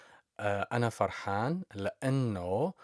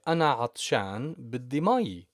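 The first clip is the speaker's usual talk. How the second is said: acted quote; 3 semitones higher, 4 dB louder than usual. Shown as a demonstration. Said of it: "So you could say".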